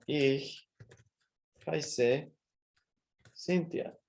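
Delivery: slow dictation, a pause after each word; palabra por palabra. Shown as a demonstration. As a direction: separate every word for learners writing along. Escribe la respuesta palabra por palabra. (dictado pausado, palabra por palabra)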